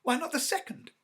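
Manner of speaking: high, loud eager question; feverish. Acted. Wife presses her husband, high and feverish. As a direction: urge it on him, fevered. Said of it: "said the old woman feverishly".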